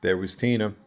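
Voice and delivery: measured read-aloud with deliberate pauses; recited autobiographical stage monologue. Acted. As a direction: read your personal monologue to an audience, phrase by phrase. Reads own stage monologue.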